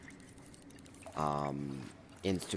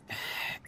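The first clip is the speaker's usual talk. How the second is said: small sigh. Real, not acted. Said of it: "it's heart-wrenching".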